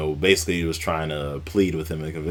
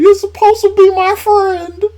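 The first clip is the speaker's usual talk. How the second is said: screaming Batista imitation; 12 dB louder than usual. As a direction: scream the betrayal at full force. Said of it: "He's like".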